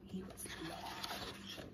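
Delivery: very soft, slow whisper; awed whisper. Real, not acted. Librarian marvels at the biggest goat's picture, awed whisper. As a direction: whisper it slowly, impressed. Hushed aside about the big goat.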